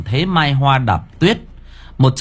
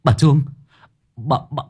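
alarmed yell, much higher at the end; shouting; 8 semitones higher, faster than usual. Acted. Thành Mo warning Nam about the old woman, yelling. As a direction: cry out the warning as you spot her. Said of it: "Thành Mo hét lên".

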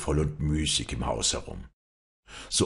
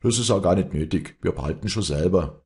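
a touch of irritated retort; mildly irritated young man answering back; 3 semitones higher, 4 dB louder than usual. Acted. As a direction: snap back, mildly annoyed. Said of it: "erwiderte Leander gereizt".

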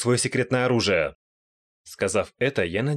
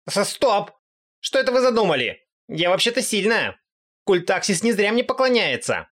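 much higher, flustered bragging; flustered goddess; 10 semitones higher, 3 dB louder than usual. Acted. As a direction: puff up to scare them. Aqua flustered, boasting. (взволнованная богиня, высоко)

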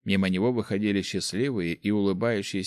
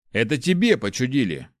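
grumbling retort; 4 semitones higher, 4 dB louder than usual. Acted. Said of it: "буркнул второй".

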